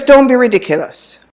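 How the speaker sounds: high, quick brush-off; retold dismissive colleague. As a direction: imitate a colleague scoffing at the refusal. Retold colleague dismisses her refusal.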